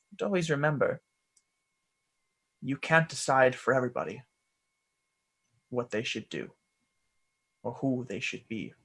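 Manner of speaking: lightly voiced gentle mentor; measured teaching with long pauses, often softening; Quell. Mentor telling boy everybody's path is their own, gentle and measured.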